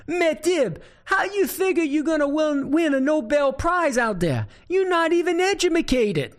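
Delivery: puzzled high Cajun holler; Boudreaux. Acted. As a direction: holler in disbelief across the field. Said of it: "he's a bit puzzled, and he hollers".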